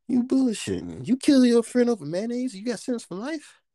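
high, loud disbelief; shocked and outraged at the absurdity; incredulous. Real, not acted. Shocked at mayonnaise murder.

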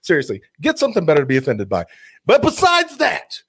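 building comic rant; escalating comedy rant. Real, not acted. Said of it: "I'm about to go into full rant mode".

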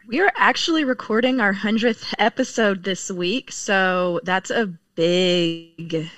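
really tired, words dragging toward the end; exhausted. Real, not acted. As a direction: stretch it out as if worn out. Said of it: "You sound so exhausted".

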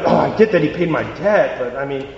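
reluctant grumble giving in; half-hearted, put-upon agreement; begrudging. Acted. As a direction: talk yourself grudgingly into a favour. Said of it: "he'd do it begrudgingly".

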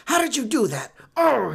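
hammed-up frustrated shock; mock shocked cry. Riddler foiled by Batman again, mock shocked cry. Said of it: "he's shocked every single time".

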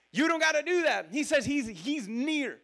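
ordinary delivery

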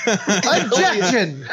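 mock objection. Courtroom role play.

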